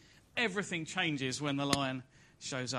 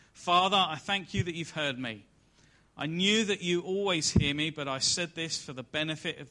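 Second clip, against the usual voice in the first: prayerful call; 2 semitones higher, 5 dB louder than usual. Acted. Jesus praying aloud in reading.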